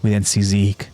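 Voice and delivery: measured, even narrator's read; story recap narration. A narrator's reading. Narrator recapping a battle for listeners, measured storytelling. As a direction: narrate the battle in deliberate phrases.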